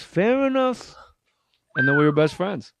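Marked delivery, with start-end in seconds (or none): 0.0-1.0 Buddy Hackett. Retold or imitated. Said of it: "he goes".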